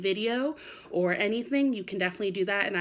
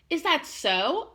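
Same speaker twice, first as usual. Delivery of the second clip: slow, higher, lightly voiced mother; mother's gentle question; 8 semitones higher, 4 dB louder, much slower than usual. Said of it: "asked Missus Raccoon".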